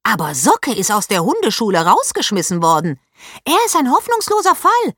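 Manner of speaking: outraged shriek. A narrator's reading. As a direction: shriek it, then keep scolding hotly. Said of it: "Paula stieß einen Schrei aus".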